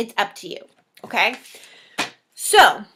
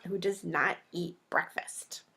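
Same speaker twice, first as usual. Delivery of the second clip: stage whisper; 3 semitones lower, 9 dB quieter than usual. Acted.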